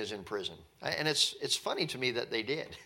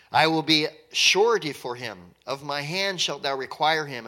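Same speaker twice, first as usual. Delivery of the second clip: raised, formal reading of the verse; scripture reading. Acted. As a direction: read the verse out with weight.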